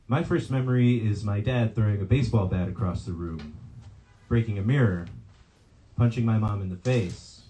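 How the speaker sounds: measured poetry reading with falling line ends; poem reading. Acted. Poet recounting a date to an audience, measured poem reading. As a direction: read it line by line, pausing after each image. Reads own poem aloud.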